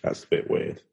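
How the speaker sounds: whispered, half under breath; whispered aside. Real, not acted. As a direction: drop to a whisper. Quiet aside.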